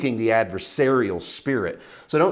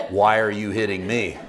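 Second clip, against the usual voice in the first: louder retake of the donkey line with a laugh; 3 dB louder than usual. Retold or imitated. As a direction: say the donkey's line again, chuckling. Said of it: "Yeah, and I said that right".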